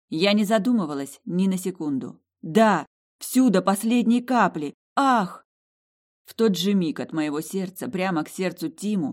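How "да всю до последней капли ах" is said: fervent consent. Acted. Heroine gives her blood.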